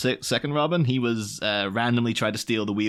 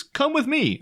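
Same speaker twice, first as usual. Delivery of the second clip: lightly voiced lure, pitched up; a hint of a shady stranger; creepy invitation; slower than usual. Batman luring boy.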